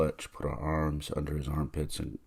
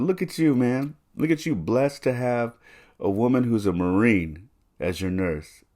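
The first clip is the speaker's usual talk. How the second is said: retold delight; 7 semitones higher, 10 dB louder than usual. Excited remark to grandfather, retold.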